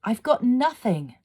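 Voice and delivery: high, breathless, pleading; gasped girl. A narrator's reading. Leela pleading with the fire fiend, gasping. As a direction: gasp it out, desperate. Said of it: "Leela gasped".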